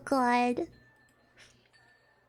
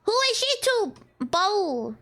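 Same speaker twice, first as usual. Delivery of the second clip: slow, pointed, slightly higher; suspicious; 5 semitones higher than usual. Real, not acted. Streamer questioning the new woman, suspicious and slow. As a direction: narrow your eyes at her.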